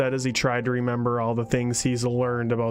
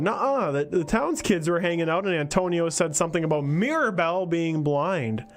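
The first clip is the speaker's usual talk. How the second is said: put-on child voice; 4 semitones higher than usual. Child character explains.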